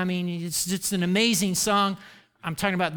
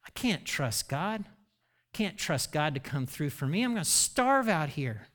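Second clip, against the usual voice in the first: doubting; 4 semitones lower, 6 dB quieter than usual. Acted. Voicing the underlying doubtful thought.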